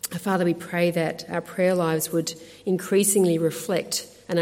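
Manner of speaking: subdued, earnest closing prayer. Real, not acted. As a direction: pray aloud gently on the congregation's behalf.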